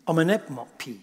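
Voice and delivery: low, deliberate sounding-out; measured, syllable-by-syllable name; slow, careful pronunciation. Shown as a demonstration. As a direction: say the foreign name slowly and carefully. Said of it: "let me say that slowly".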